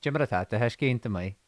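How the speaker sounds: low Irish in a Donegal accent. Shown as a demonstration. Showing Donegal is easier in Irish, Donegal accent. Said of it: "do a Donegal accent in Irish".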